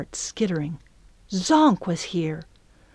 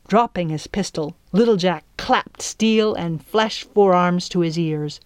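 usual speaking voice

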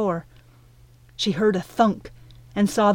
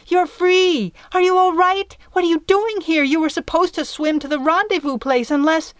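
tumbling excited questions, much higher and louder; overjoyed; 9 semitones higher, 4 dB louder than usual. Acted. Midge hugs wet Piper, excited and much higher. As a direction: burst with relief and questions.

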